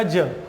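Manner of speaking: 'ज' as a lone low, falling sound; phonics-style 'ज'; letter-sound demo. Shown as a demonstration. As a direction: give 'ज' as the answer, dropped in pitch. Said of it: "उच्चारण क्या रह जाएगा".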